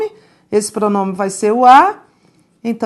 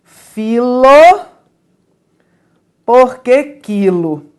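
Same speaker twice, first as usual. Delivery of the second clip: mildly voiced quote, por que quilo drawn out slowly; mock-solemn quote, slowly; quoting a politician; 4 dB louder, slower than usual. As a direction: deliver the witty quote with a hint of pomp. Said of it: "que dizia assim".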